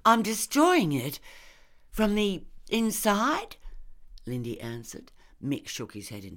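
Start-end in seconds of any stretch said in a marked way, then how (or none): 0.0-3.6 high, loud, fervent declaration; radical zeal. A narrator's reading. Lindy defending herself to Mick, with radical zeal. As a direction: proclaim it fervently, slowing on the last words. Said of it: "the radical zeal returning".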